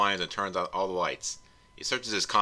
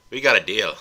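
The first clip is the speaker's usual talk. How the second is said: louder, firm ogre voice; gruff ogre agreement; 8 dB louder than usual. Acted. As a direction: seal the deal like an ogre. Shrek voiced closing the deal.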